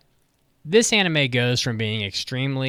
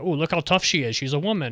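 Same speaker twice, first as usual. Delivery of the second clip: higher sarcastic gush; mock admiration; 5 semitones higher than usual. Reviewer parodying the show's praise, higher sarcastic gush. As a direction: gush with fake awe. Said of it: "And then".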